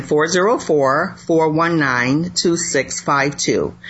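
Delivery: slow digit-by-digit repeat; reading digits one by one. Shown as a demonstration. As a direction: say the number again slowly, digit by digit.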